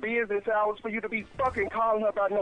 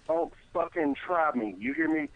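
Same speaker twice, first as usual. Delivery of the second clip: low threat; 5 semitones lower than usual. Real, not acted. Husband threatening prank caller.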